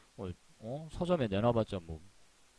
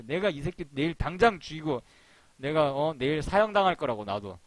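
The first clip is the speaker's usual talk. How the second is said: mock rage; 3 semitones higher than usual. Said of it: "그러고 난리를 칠 겁니다".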